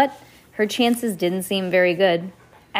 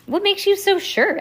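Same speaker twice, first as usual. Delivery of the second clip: put-on high boy character voice; 12 semitones higher, 4 dB louder than usual.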